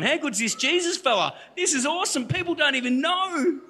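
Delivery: high-pitched, hammed-up amazement; gushing excitement. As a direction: gush like you've just discovered something incredible. Acts out his thrilled discovery of faith.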